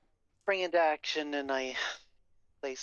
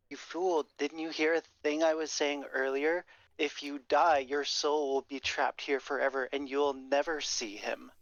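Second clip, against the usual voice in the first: stern, forceful warning; firm, scolding menace; intimidation; 2 semitones higher, 3 dB louder, slower than usual. Acted. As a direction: bear down on them with a threat, slowing at the end. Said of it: "I'm gonna do the intimidation thing".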